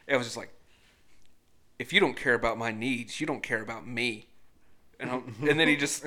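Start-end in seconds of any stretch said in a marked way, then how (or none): 1.8-4.3 imitating a child suddenly turning grave; lightly acted serious, lowered voice; dropped-octave imitation. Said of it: "dropped an octave".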